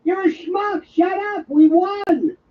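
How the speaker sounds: high, exasperated mock outburst; retold irritated yell; exasperated retort. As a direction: cut him off in a high, acted huff.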